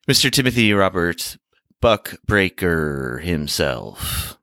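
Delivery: lightly hammed radio guest introduction; amped-up radio intro. Host introducing the co-host, amped-up radio intro. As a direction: draw out the name, slowing to the finish. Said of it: "Kinda reminded me of Art Bell intro".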